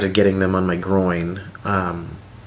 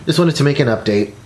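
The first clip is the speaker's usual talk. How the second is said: laughing; 6 semitones higher, 3 dB louder than usual. Real, not acted. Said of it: "can't see anything when my glasses are".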